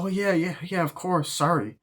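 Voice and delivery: high, airy fake apology; hammed-up bratty sorry; sarcastic kid.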